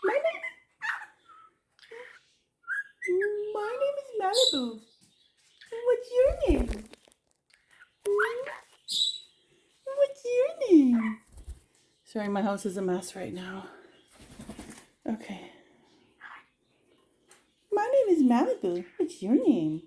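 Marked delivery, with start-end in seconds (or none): 0.0-11.2 very high squeaky parrot imitation. Owner echoing her parrot Malibu, high squeaky parrot voice. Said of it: "Now he's saying it". 17.7-19.8 parrot voice. Retold or imitated. Repeating parrot's phrase.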